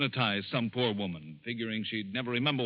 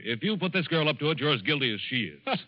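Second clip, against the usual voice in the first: angry accusation; 4 semitones higher, 3 dB louder than usual. Acted. Accuses Basile of inciting murder.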